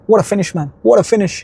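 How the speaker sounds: what a finish, said with building delight; excited praise. Real, not acted. Admiring a teenager's winning goal.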